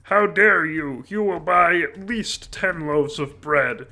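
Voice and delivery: a hammed-up outburst at a kid who won't buy bread; mock outraged shout. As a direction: ham up the offended shopkeeper's fury. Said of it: "And they say".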